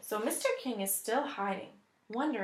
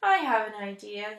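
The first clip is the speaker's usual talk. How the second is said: announcing. Acted. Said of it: "he announces".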